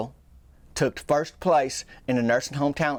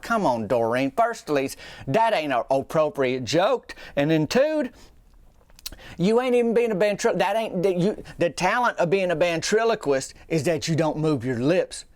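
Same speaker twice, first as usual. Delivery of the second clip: exasperated; 2 semitones higher than usual. Retold or imitated. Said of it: "I'm like".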